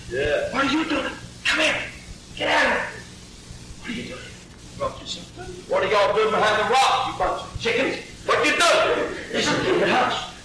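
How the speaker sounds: hushed, breathy calls from behind the rocks; half-whisper, half-laughing, keep your head down; hiding brothers hushing David. Acted. Brothers behind rocks hissing at David, hushed and laughing.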